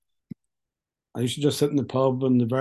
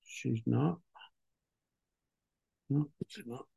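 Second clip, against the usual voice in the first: choked up; 10 dB quieter, slower than usual. Real, not acted. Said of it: "'cause it makes me cry".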